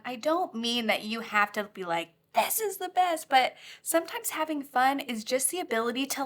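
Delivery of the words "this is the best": high, gushing mock excitement; mock enthusiasm. Teacher showing fun needn't be over the top, mock gushing. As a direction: overdo the delight for a moment.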